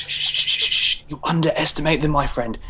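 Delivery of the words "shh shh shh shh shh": whispered shushing. Acted. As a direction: hush him urgently. Hushing under attack.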